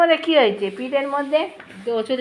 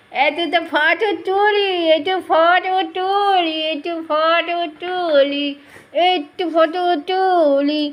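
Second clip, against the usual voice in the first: slow singsong coaxing, higher; 4 semitones higher, slower than usual. Acted. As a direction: draw out তুলি each time to coax. Coaxing pet for a photo. (ধীর সুরেলা আদুরে ডাক)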